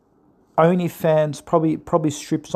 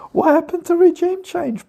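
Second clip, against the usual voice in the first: taunting shout; 10 semitones higher than usual. Real, not acted. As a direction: jeer at the Trump supporters. Taunting Trump supporters.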